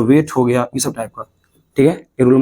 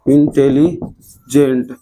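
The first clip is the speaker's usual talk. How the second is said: slow syllable reading; much slower than usual. Shown as a demonstration. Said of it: "देखो तो ऐसे नहीं बनेगा".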